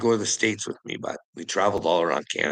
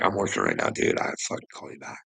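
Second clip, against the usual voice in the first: low, mildly dismissive imitation of a friend; imitated brush-off; faster than usual. Friend at work putting off a distressed caller, mildly dismissive. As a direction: lightly voice a busy friend putting him off, pitch dropped.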